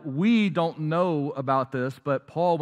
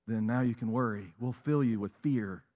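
much lower and softer, menacing; sinister enemy voice; 6 semitones lower, 6 dB quieter than usual. Acted. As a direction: voice the enemy's quiet threat.

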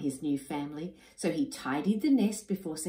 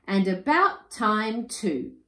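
slow, louder reproach, a touch higher; indignant; 5 semitones higher, 6 dB louder, slower than usual. Acted. Husband reproaching his returning wife, slow and indignant. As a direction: let her know she's late.

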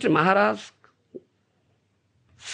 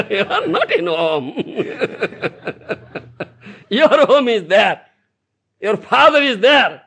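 laughing; 3 semitones higher than usual. Real, not acted. Teasing the audience, laughing.

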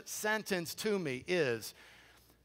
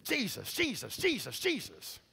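mock pleading. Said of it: "a lot of Christians kinda do this".

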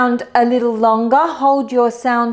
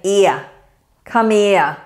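Cockney, "here" said as "ear" with the h dropped; Cockney "ear, come here"; 3 semitones lower than usual. Shown as a demonstration. Teacher demos a Cockney "come here" to her student. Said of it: "an English person with a Cockney accent saying".

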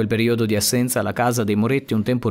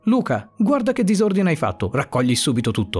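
a higher, mildly raised angry scolding; angry exclamation; 4 semitones higher than usual. Acted. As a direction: snap at the child, understated fury. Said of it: "esclamò la signora Ferrero, con molta rabbia addosso". (rimprovero arrabbiato, accennato)

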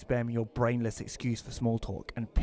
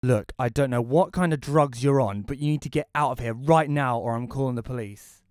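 angry; 6 dB louder than usual. Acted. Threatening intruder in his house.

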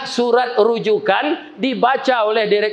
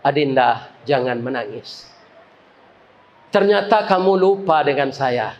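gentle consoling voice. Acted. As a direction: comfort her like an old friend. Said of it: "terdengar suara di belakang".

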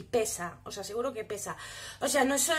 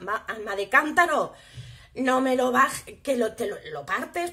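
imitating a scolding critic, louder, with a stretched warning; mock scolding; 3 dB louder than usual. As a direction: play the nagging know-it-all telling her off. Imagined scolder warns about breaking lipstick. (regañina burlona de una crítica imaginaria)

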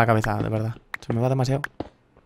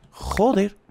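delighted exclamation; 8 semitones higher than usual. Real, not acted. Delighted at diamonds.

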